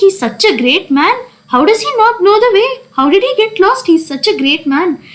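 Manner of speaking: high, quick protest; hammed-up schoolboy insistence; mock deliberate shouting. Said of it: "he was shouting deliberately".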